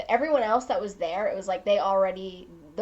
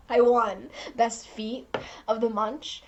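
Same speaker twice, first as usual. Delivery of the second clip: laughing. Real, not acted. Laughing about winning prize.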